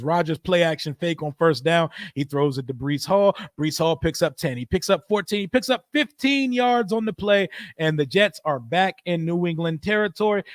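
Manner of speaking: easy sportscaster call with a lift on the gain; play-by-play. Acted. Streamer calling the Jets drive for chat, light play-by-play. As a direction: narrate the drive like a broadcaster. Calls a live game play.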